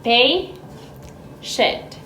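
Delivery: quiet model of "Patient" for syllable counting; soft demo. Shown as a demonstration. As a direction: ease the word out for counting. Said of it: "How many syllables does it have?".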